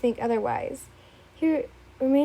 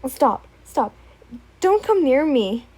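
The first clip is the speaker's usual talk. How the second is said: louder, panicked yell; frightened yell; 8 dB louder than usual. Acted. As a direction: shout him away. Frightened refusal to intruder.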